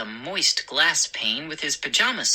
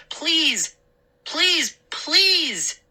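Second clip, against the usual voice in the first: high, mounting repeated plea; pleading; 12 semitones higher, much slower than usual. Acted. Boy imploring his father, desperate pleading. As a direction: beg harder with each word. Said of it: "I pleaded".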